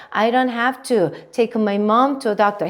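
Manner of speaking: "mom" and "doctor" given clear beats; slow, measured emphasis on "mom" and "doctor"; stressed key words. Shown as a demonstration. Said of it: "강세 넣어서 갈게요".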